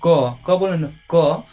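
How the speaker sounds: क said slowly as "kə", letting the vowel ring; sounding out ka. Shown as a demonstration. Teacher to students, sounding out क clearly. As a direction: draw out क so the अ is heard. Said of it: "देखिए ध्यान सुनिएगा".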